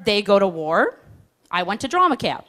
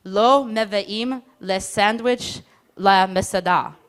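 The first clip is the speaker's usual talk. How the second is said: solemn proverb; much slower than usual. Retold or imitated. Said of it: "an ancient Israeli proverb".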